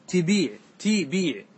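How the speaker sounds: تبيع read tibīʕ, long i after the b; kasra on ta and ba. Shown as a demonstration. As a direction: say تبيع slowly as ti-bīʕ, i under both ت and ب. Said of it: "بكسر التاء والباء". (تبيع بكسر التاء والباء)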